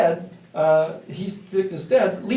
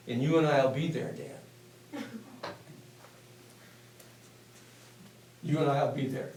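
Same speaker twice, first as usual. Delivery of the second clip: softer, leaning in, hushed; a sly, hushed promise; softly, as if sealing a secret deal; conspiratorial murmur; 3 semitones lower, 7 dB quieter than usual. Retold or imitated. Leans across, hand on arm.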